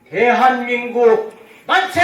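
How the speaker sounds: loud, high, slow rally cry; shouted cheer. Real, not acted. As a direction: lead the crowd in a chant. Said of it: "제가 선창하겠습니다".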